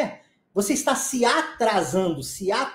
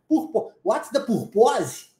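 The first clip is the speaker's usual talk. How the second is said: slow, laughing "purpose" with a Portuguese ending; laughing mock mispronunciation; slower than usual. Teacher laughs while imitating a student's "purpose", slow and amused. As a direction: chuckle through the learner's "purpose", slowly. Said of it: "E aí você vai falar o quê?".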